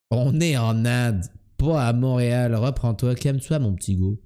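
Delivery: lightly imitated Québécois; comic Québécois self-talk; Québécois accent. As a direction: put on a mild Québécois accent. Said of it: "quand tu imites les Québécois".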